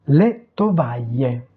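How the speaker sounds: "le tovaglie" said distinctly in Italian; Italian pronunciation demo. Shown as a demonstration. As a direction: model "le tovaglie" for learners. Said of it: "prononcer les mots". (prononcer « le tovaglie » distinctement à l'italienne)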